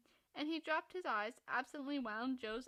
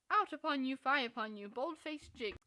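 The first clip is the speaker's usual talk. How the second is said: mock scolding; 6 dB louder than usual. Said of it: "I always want to say with our friend Cock Robin".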